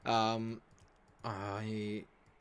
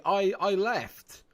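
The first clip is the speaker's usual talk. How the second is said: defensive protest; 10 semitones higher, 9 dB louder, much slower than usual. Real, not acted. Protesting his sacking.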